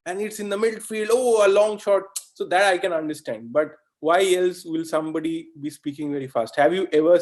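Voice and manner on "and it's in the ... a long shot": higher, building football commentary call; football commentator. Retold or imitated. Teacher mimics a commentator calling the shot, mildly excited. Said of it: "you have to say".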